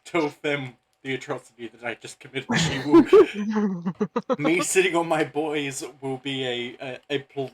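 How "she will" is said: put-on valley girl. Annie voice in banter.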